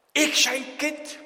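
high, loud, slow astonishment; incredulous exclamation. Acted. Believer called God's child, loudly incredulous. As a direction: exclaim it in disbelief, drawn out.

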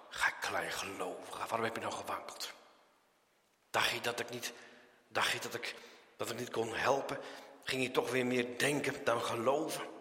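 low, soft, tender questioning; gentle reproof. Acted. Jesus to Peter after the rescue, gently reproving. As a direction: chide softly, voice dropped low.

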